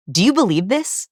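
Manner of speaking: "this" lifted in doubtful asking; question inflection. Retold or imitated. Imitating liars seeking belief, rising questioningly on "this". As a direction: ask it, tipping "this" upward. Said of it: "question inflection 'cause they're asking".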